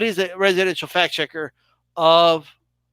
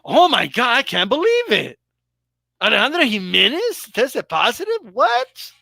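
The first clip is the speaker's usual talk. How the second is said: mock surprise; 3 semitones higher than usual. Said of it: "was anybody like".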